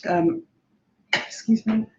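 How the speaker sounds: coughing through the words; choked, strained voice; choking. Real, not acted. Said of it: "just choking".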